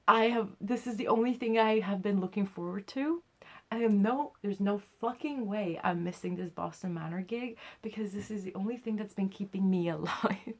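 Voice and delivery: mildly dramatic, emphatic declaration; retold impassioned insistence. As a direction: declare it like a lifeline, laughing near the end. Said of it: "That was a bit dramatic".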